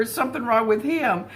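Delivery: lightly voiced young wife doubting her husband; quoted question.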